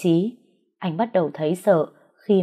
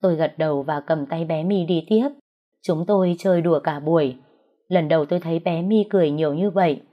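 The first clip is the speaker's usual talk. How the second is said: ordinary delivery, nothing marked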